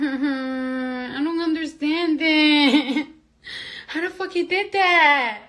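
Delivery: slow words broken by laughter; stretched-out laughing bewilderment; laughing disbelief. Real, not acted. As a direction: laugh through the confusion.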